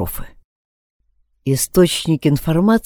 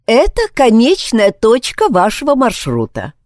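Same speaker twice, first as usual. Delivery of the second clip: muffled gentle voice; 6 semitones higher than usual. A narrator's reading. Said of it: "Нежный голос звучал глуховато".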